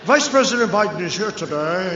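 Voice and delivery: lightly voiced formal announcer; a hint of a PA announcer reading; mock announcer. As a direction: introduce the vice president like a stadium announcer. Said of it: "He's an announcer".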